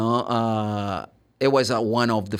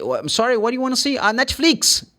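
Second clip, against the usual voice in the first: puzzled high voice, not getting it; confused mishearing; 10 semitones higher, faster than usual. Acted. A puzzled listener mishearing Netflix, higher voice.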